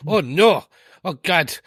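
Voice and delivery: exclaiming in a put-on German accent; fretful German accent, lightly done. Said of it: "that's enough of my German accent".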